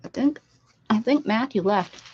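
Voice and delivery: talking through a mouthful; words round a strawberry bite; mouth full. Real, not acted. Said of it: "I'm talking with my mouth full".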